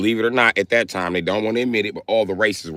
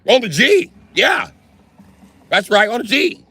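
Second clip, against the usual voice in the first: high loud mimicking cheer; high excited mock chant; hyped cheer; 12 semitones higher, 4 dB louder than usual. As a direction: white colonists copying the chant. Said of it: "White people was like".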